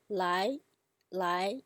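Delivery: "lai" in Chinese second tone, climbing; rising tone. Shown as a demonstration. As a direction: lift "lai" like a questioning why. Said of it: "isn't it similar to".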